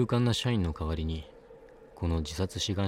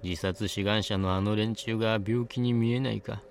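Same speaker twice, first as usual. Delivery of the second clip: put-on a touch higher old crone voice; bitter old hag, lightly voiced; high old woman voice; 3 semitones higher than usual. A narrator's reading. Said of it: "ワンオクターブ高い声で".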